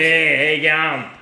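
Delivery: put-on slow, drawn-out Australian bogan accent. Co-host keeps up the joke greeting, Australian bogan voice. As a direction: draw it out like a laid-back Aussie bogan. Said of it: "That's his Australian bargain voice".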